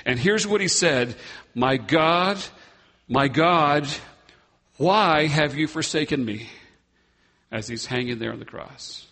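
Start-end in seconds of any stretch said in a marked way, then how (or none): 1.5-6.5 mild anguished cry. Retold or imitated. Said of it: "The word cried means he screamed in agony".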